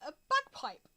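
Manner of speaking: slow, paused game master narration; scene setting. Acted. Game master reveals tiny kilted men to players, scene setting. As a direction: unfold the scene slowly with suspenseful pauses.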